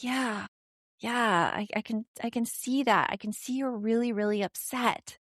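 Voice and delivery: gentle, understanding acknowledgement; empathizing parent. Shown as a demonstration. Parent sits beside upset child, mildly empathetic. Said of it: "and empathize. Be like".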